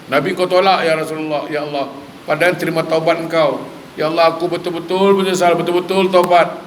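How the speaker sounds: acted-out repentant plea, pressing on without letup; pleading prayer. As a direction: implore God as the remorseful sinner. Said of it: "Dia minta". (rayuan taubat yang dilakonkan)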